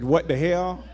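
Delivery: casual, exasperated what the hell; offhand street exclamation; out-of-church what the hell. Shown as a demonstration. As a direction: say it like you're not in church. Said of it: "you can say it like you say it when you ain't in church".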